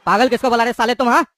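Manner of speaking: put-on loud, angry rounding on the old man; furious shout. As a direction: bellow the accusation. Thug enraged at being called mad.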